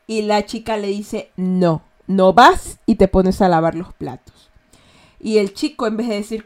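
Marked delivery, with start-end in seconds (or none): 1.4-4.5 bossy refusal. Retold or imitated.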